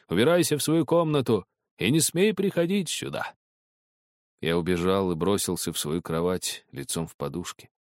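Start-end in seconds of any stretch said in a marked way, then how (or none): 0.1-3.3 angry order. Acted. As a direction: drive him out of the room. Father throwing boy out. (гневный приказ)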